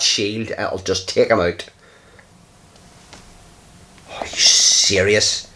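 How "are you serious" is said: whispered disbelief. Real, not acted. Another bad turn.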